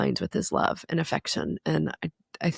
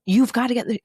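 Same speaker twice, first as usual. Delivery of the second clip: a retold sharp snap, raised higher and louder; frustrated snap; 6 semitones higher, 4 dB louder than usual. Mother recalling snapping at her son, frustrated snap. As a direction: snap at him like a frustrated parent. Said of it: "I get frustrated and I've, like, snapped".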